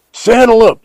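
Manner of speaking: high, loud cowboy call; yelling. A narrator's reading. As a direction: holler the order to the whole camp. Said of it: "yelled Jim".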